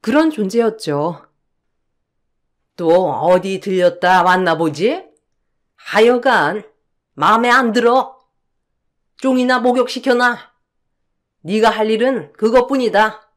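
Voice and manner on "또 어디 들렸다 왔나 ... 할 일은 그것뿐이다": curt, disdainful mother-in-law; cold scolding. Acted. Mother-in-law dismissing daughter-in-law, cold and curt. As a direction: talk down to her coldly.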